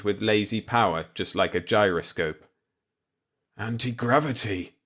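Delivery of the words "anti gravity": hoarse, barely voiced croak. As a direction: croak it out in shock. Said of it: "I croaked".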